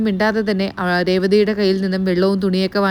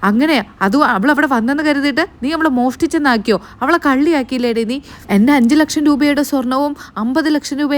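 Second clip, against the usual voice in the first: retold furious scolding, pitched up; very angry scolding; 3 semitones higher than usual. Grandmother accuses daughter-in-law of theft, retold fury. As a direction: grandmother tearing into her daughter-in-law, hammed-up. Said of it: "വല്ലാത്ത ദേഷ്യത്തോടു കൂടിയാണ്".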